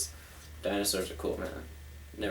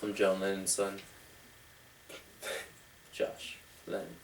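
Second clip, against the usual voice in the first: low mock voice; 9 semitones lower, 15 dB quieter than usual. Absurd confession in low voice.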